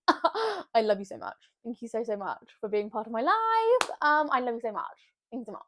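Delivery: gushing thanks in Queen's English. Real, not acted. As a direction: slip into a proper Queen's English accent. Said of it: "I've just reverted into Queen's English there".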